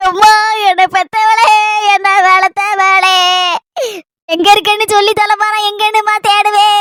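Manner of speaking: slow sing-song mourning wail; keen for her like a funeral oppari; wailing lament. Acted. Daughter wails for her missing mother in a slow lament.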